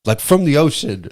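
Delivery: high, baffled question; incredulous. Retold or imitated. Mocking his own confusion to a friend, high incredulous. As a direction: ask it like it makes no sense. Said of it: "And I'm like".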